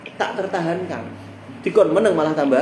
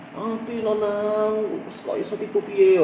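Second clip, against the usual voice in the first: slow, drawn-out higher mock wail of a fussing mother; overdramatic mother; 6 semitones higher, slower than usual. Mocking a mother who fusses over her fallen child, slow and hammed-up. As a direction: stretch the worry out like a hammed-up mum. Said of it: "Ora usah ngono".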